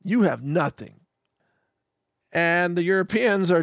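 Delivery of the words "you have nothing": lightly mocking divorce-settlement demand, high then dropping; hint of a demanding ex-wife, pitched up at first; divorcing wife. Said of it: "Trump's being the wife of the divorce".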